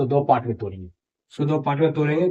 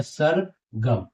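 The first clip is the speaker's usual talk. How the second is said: slow reading demo; much slower than usual. Shown as a demonstration. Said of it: "तो देखिए कैसे पढ़ेंगे".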